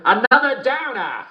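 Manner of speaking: spring the answer with glee; gleeful punchline. Acted. Host delivering the punchline to listeners, gleeful.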